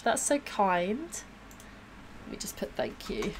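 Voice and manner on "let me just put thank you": under the breath, barely voiced; whispered aside. Real, not acted. Whispering to herself as she types a thank-you. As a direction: whisper it to yourself while typing. Muttering while typing a reply.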